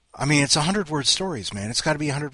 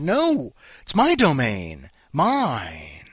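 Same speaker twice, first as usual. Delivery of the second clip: possessive claim; 4 dB louder, much slower than usual. Pretend. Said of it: "I should have said".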